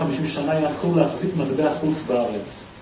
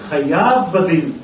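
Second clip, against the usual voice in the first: formal verdict; slower than usual. Retold or imitated. Judge pronounces verdict.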